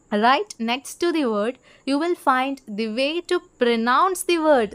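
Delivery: slow, deliberate reading aloud to students; slow textbook reading. Shown as a demonstration. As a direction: read each word out slowly for the class. Reads English textbook line slowly. (പതുക്കെ പാഠപുസ്തകം വായിക്കുന്നു)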